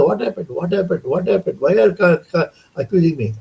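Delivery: defensive and baffled, a little mock; puzzled protest. Devotees accuse him downstairs, so he asks in baffled protest.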